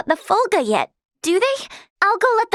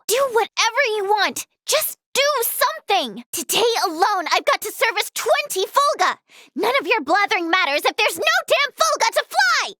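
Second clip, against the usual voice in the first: higher-pitched, exasperated outburst; exasperated rant; 5 semitones higher than usual. Acted. Overworked servicer snapping at someone idle, exasperated rant.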